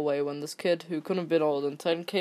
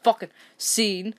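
stern employee; 4 dB louder than usual. Retold or imitated. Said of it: "Employee says".

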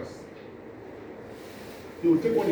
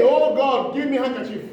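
mock prayer; 5 semitones higher, 4 dB louder than usual. Shown as a demonstration. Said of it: "And you pray".

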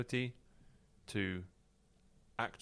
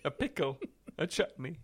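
spluttering outrage; 4 semitones higher than usual. Acted. Mock flustered dilemma.

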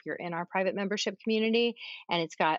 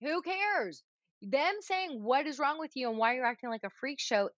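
mock kid; 6 semitones higher than usual. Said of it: "and I'm like".

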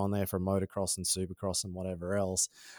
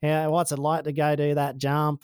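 put-on Australian accent; 4 semitones higher than usual. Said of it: "I had this full Australian accent".

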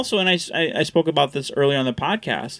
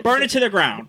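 high mock-vengeful snarl; revenge rage; 8 semitones higher than usual. His first impulse after the insult, high vengeful rage. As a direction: spit out the revenge fantasy, higher. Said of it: "immediately it was like".

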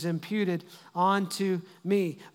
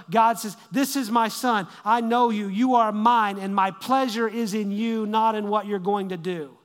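forceful preaching; 3 dB louder than usual. Acted. Preaching climax, loud.

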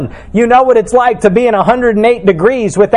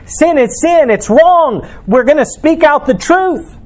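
higher, ringing declaration of the truth; bold proclamation; 6 semitones higher than usual. Retold or imitated. Preacher voicing believers who boldly proclaim, ringing. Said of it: "stand up and proclaim".

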